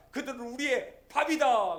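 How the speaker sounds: 밥이다 hit loud and falling hard; bold declaration. Acted. Caleb declaring victory to the crowd, loudly. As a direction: proclaim 그들은 우리의 밥이다 like a war cry. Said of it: "이렇게 얘기합니다".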